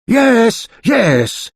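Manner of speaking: high hurried yes; cried out. A narrator's reading. Mister Stingy giving in fast, cried out. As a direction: cry out quickly. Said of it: "he cried".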